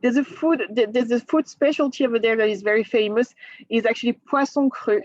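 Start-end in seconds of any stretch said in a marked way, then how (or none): 4.3-5.0 French accent on the dish name; thickest French accent. Shown as a demonstration. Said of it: "saying with my thickest French accent".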